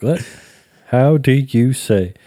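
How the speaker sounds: halting imitation of Spanish-accented English; put-on Spanish accent. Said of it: "I also do it with the Spanish-speaking folks".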